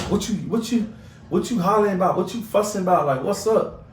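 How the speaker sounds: a mom demanding what the yelling is about; imitating Kenley's mama. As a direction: play the annoyed mom barging in. Kenley's mama confronting, voiced in story.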